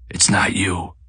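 near-whispered disbelief; hushed denial. A narrator's reading. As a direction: deny it under the breath. Eddie's repeated denial, nearly whispered.

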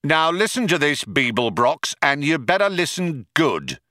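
a hint of a tough cop; lightly voiced warning cop. Cop warns Beeblebrox to listen, calling out.

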